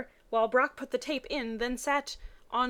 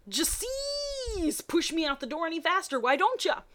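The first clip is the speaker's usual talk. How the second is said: mock indignant; 8 semitones higher than usual. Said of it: "Brock mumbled".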